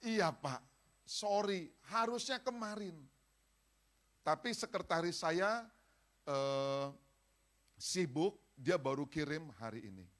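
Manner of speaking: high, loud laughing reply; a jolly donor laughing on the phone; laughing caller. Retold or imitated. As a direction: laugh it off, brightly apologetic. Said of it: "Terus dia ketawa".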